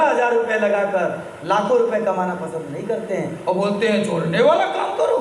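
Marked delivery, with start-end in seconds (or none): 4.0-5.2 dismissive boast in imitation; cocky mock swagger. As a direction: imitate people talking big. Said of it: "बड़े ताव से बोलते हैं लोग".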